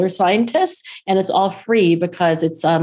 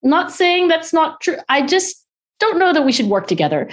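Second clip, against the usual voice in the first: imitating husband; 10 semitones higher than usual. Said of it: "he was like".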